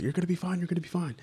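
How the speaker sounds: high, lightly voiced reassurance; retold reassurance. Friend calms him when worked up.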